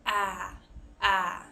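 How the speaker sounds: wide-open ah vowel, like cat; open-mouth vowel. Shown as a demonstration. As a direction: drop the jaw for a big ah. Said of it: "we need our mouth open".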